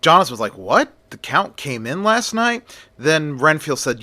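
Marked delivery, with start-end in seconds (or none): 0.6-2.6 high, incredulous rising question; surprised. A narrator's reading. Jonathan hears the Count arrived, startled. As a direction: voice jumps up in disbelief.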